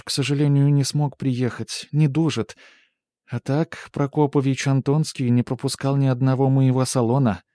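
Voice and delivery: high, loud bragging lady; boastful hostess. A narrator's reading. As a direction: boast about the famous guest. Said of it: "похвасталась".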